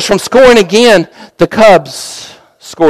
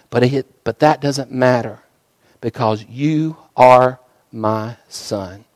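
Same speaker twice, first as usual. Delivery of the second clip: gentle fatherly reassurance; 3 semitones lower than usual. Acted. Father urges son back to game.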